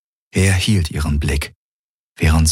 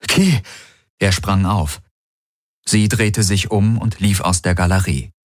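calling out; 3 semitones higher than usual. A narrator's reading. Galen calls after Kirai.

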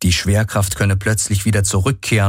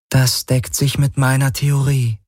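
raised, detached AI voice; higher, otherworldly voice of a calm machine; the Helix, a machine mind; 7 semitones higher than usual. Acted.

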